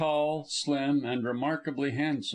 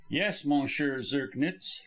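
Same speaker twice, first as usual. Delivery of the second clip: grim; slower than usual. Acted.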